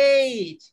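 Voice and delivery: এইট said as "eit" with a clear ei glide; teacher showing how to say eight; pronunciation demo. Shown as a demonstration. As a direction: model এইট slowly, ei then t. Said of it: "এটা উচ্চারণ কি ভাই?".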